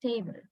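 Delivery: "Table" with a pure "eh", no glide; monophthong. Shown as a demonstration. Teacher repeating the local form, monophthong in "Table". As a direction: say "Table" with the tongue still. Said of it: "do not move your tongue".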